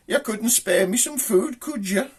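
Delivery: high, slow pleading; small high-pitched creature begging; little snail voice. Acted. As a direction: wheedle for food as a tiny snail. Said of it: "he hears this little voice".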